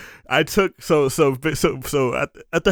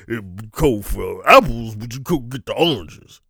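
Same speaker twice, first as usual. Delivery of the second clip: put-on Southern accent; 3 semitones lower than usual. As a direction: imitate a Southern man explaining, cracking up in places. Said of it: "my go-to Southern accent. This is just kinda like what he sounded like".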